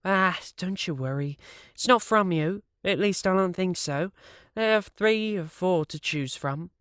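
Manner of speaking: high, breezy woman voice; Brenda teasing. A narrator's reading. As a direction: toss it off lightly in a high voice.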